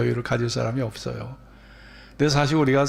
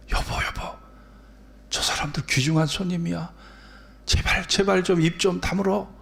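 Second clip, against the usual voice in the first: imitating an urgent, breathy hushed plea; hushed pleading; 4 semitones higher than usual. Embarrassed husband begging his yelling wife before guests, hushed pleading. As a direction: plead under your breath, as if guests could overhear.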